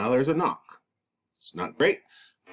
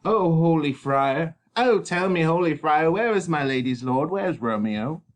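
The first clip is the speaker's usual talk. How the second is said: anxious nurse; 8 semitones higher, 4 dB louder than usual. Acted. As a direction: beg the friar for news. Nurse pleading.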